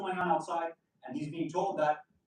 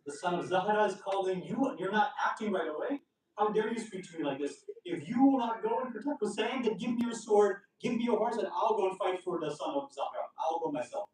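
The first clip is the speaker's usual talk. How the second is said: angry wife; 3 semitones higher than usual. Retold or imitated. Wife shaming her hesitant husband into helping Hussein, retold anger. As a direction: voice an angry wife's rebuke, earnest but controlled. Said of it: "his wife gets angry".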